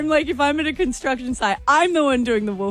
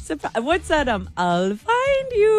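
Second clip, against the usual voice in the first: mock creepy stalker; 5 semitones higher than usual. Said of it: "That scares me".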